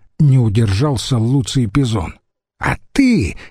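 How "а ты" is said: high, slow outraged cry; fly off the handle at the insult; flaring up. Acted. Senator flares up at a rival, outraged high cry. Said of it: "взвился Агенобарб".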